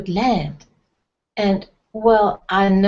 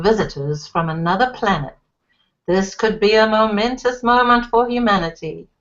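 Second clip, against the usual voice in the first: a lightly voiced anchorman reading the bulletin; mild anchorman tone breaking in on TV; news bulletin; 2 semitones lower than usual. A narrator's reading. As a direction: read it like the six o'clock news, lightly.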